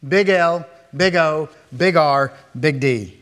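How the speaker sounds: each capital letter punched out loud; spelling it out. Shown as a demonstration. Preacher spelling LORD in capitals to his hearers, punched. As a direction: tap out every letter. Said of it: "written in all caps".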